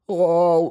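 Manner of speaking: a high, loud stifled "ow"; stifled yelp. Acted. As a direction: yelp as if hit, choking it back. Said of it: "придушено заволав Павло". (придушений високий зойк)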